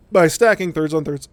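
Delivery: talking through hiccups; hiccuping mid-sentence. Real, not acted. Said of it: "sorry, I got the hiccups".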